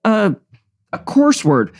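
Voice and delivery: hammed-up Irish brogue; horrible Irish accent. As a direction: greet the audience in a badly faked Irish accent.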